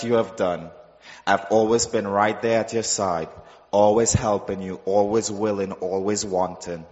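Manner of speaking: low, soft, tender voice of the Lord; voice of God. Retold or imitated. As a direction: speak as a gentle loving God, low and hushed. God speaks to him in testimony.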